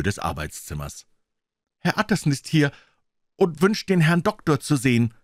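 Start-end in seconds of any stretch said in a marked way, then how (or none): 1.8-5.1 higher, called through the door; calling loudly. A narrator's reading. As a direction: call out loud to the master behind the door. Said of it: "rief er laut".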